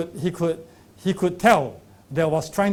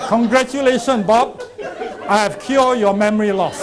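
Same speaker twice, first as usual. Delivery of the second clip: snake oil seller; 4 semitones higher, 5 dB louder than usual. Retold or imitated. Quack claims cure, laughing.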